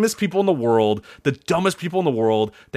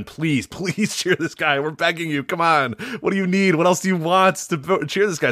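mock begging; 3 semitones higher than usual. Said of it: "it's been".

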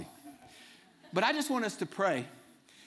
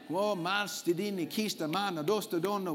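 speaking in tongues. Real, not acted. Praying in tongues.

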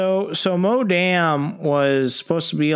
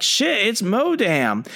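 startled henchmen; 8 semitones higher, slower than usual. Retold or imitated. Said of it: "they're like".

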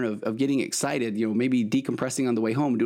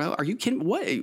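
mildly acted parental disbelief, pitched up; losing it; 5 semitones higher than usual. Parent reacting to kid's confession, mock outraged. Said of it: "then we lose our minds".

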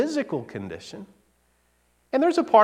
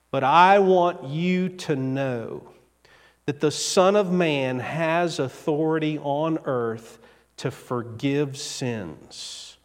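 slow, softening into the last words; Jesus tells the hostile teachers, slow and solemn; 2 semitones lower, slower than usual. Acted. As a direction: lay down the claim with grave calm.

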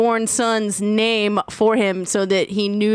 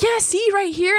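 lightly voiced client, high and pointing it out; a hint of a friendly client; mock client; 9 semitones higher than usual. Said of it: "And he's like".

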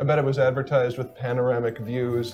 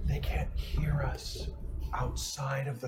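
hushed whisper; whisper, as if someone might overhear; whisper yelling; 11 dB quieter, much slower than usual. Acted. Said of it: "You can speak at normal volume".

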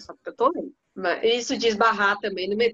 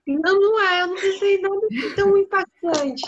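laughing; 10 semitones higher, 4 dB louder than usual. Real, not acted. Jokes about her crying story.

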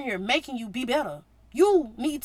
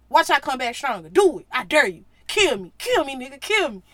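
louder, taunting dare; defiant dare; 6 dB louder than usual. Retold or imitated. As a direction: taunt them, daring. Jesus daring them, voiced.

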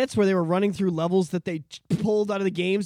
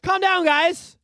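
mock calming; 11 semitones higher, 6 dB louder, much slower than usual. Mock soothing of critics.

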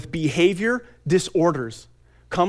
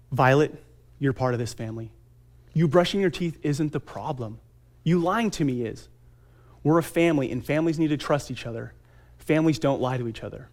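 gentle; 3 semitones lower, 4 dB quieter than usual. Retold or imitated. Gentle talk with daughter, retold.

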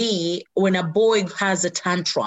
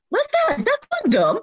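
shocked; 12 semitones higher, 3 dB louder than usual. Retold or imitated. Shocked at the condom found.

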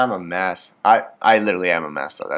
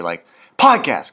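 slow self-correction, "podcast" drawn out and louder; catching the slip again on "podcast"; corrected word; 5 dB louder than usual. Real, not acted. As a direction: correct yourself, lean on "podcast". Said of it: "I keep saying it wrong".

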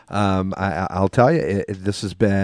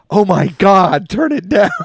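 imitating wife; 10 semitones higher, 6 dB louder than usual. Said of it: "and she went".

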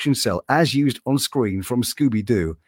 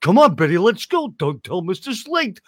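a light take on Barney Rubble, higher; chummy cartoon neighbour, mildly voiced; hint of a sneaky pal whispering; 5 semitones higher than usual. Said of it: "he was the voice of".

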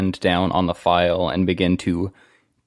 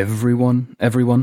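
surprised; 4 semitones higher than usual. Acted. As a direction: sound genuinely taken aback. Shocked echo of news.

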